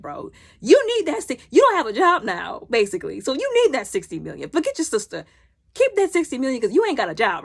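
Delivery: animated, mock-exasperated lecture; exasperated scolding. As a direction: talk sense into a foolish friend. Scolding a character for refusing money.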